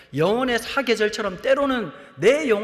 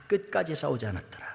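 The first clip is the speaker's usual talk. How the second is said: tone shift; 6 semitones lower, 7 dB quieter than usual. Shown as a demonstration. 설교자가 성경 구절의 어조 변화를 보여주며 낮고 조용하게. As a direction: lower and softer, sinking the verse. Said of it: "톤이 살짝 바뀌어요".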